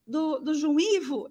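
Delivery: pleading on the verge of tears; almost crying. Retold or imitated. Asking the secretary about the exam, near tears. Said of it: "Eu quase chorando".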